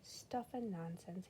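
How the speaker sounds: slow, soft murmur; quiet murmur in bed. Acted. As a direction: mumble it sleeplessly to yourself. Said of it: "he murmured".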